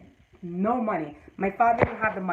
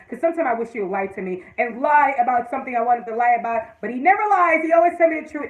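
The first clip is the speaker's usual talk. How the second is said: rising exasperation; 2 semitones higher, 6 dB louder than usual. Real, not acted. Mock complaint about honest husband.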